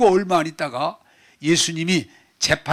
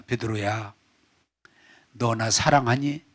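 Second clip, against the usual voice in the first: tender question; 5 semitones lower, 3 dB quieter than usual. Acted. Jesus asking Peter.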